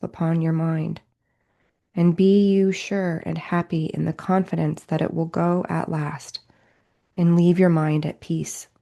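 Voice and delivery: measured, deliberate spiritual reading; reading aloud. Real, not acted. Teacher reading A Course in Miracles to listeners, measured reading aloud. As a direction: read it out in phrases, with steady emphasis and pauses. Reads book passage aloud.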